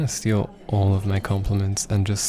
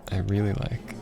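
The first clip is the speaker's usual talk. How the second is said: whisper; 3 dB quieter than usual. Real, not acted. Soft Japanese lesson to lover.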